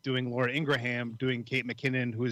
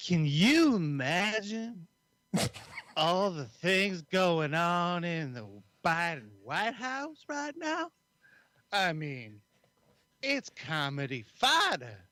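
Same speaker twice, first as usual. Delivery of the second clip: slow, higher-pitched mock pundit voice, a little hammed-up; Laura Ingraham impression; 3 semitones higher, slower than usual. Host challenges co-host to imitate a pundit, slow higher mock voice. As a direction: drawl it out slowly like a smug TV host, pitched up. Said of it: "Now you have to do an impression of Laura Ingraham".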